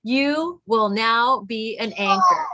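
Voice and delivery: slow, clear repeat-after-me line; slow model line for kids. Shown as a demonstration. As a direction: say it slowly so the kids can copy. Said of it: "Can you say that after me?".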